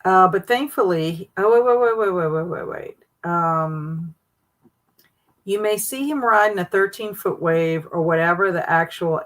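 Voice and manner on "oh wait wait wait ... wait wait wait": excited, fading. Real, not acted. Excited stopping herself.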